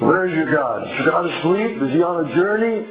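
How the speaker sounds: mocking, rising questions; Elijah's taunt. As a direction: needle them like Elijah on Mount Carmel. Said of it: "then Elijah taunts them".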